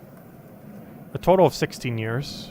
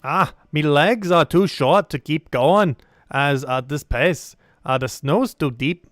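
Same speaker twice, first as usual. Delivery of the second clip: slow, lilting dwarf with swooping pitch; labored, drawn-out dwarf speech; slower than usual. Acted. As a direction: play a dwarf struggling to keep pace. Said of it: "we don't get to do dwarf voice".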